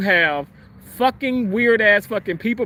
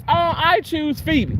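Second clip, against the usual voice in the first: slow sly Helga; 7 semitones higher than usual. Retold or imitated. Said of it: "she says".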